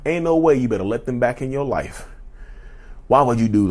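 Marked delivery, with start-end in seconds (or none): 0.1-2.1 a touch of North Carolina southern drawl, scolding. Real, not acted. Scolding viewers like a mom, light southern drawl. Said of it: "southern drawl coming out".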